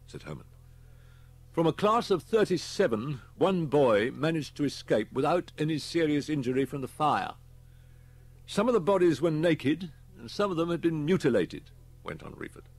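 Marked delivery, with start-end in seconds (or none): 1.5-11.7 higher, louder police briefing; grave inspector. Acted. Inspector briefs Holman on the school deaths, grave. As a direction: report the grim facts firmly.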